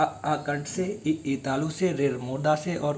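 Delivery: आ held long, then कंठ से said very slowly; slow recap. Shown as a demonstration. Teacher repeating the rule slowly for students to memorise. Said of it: "मतलब आ".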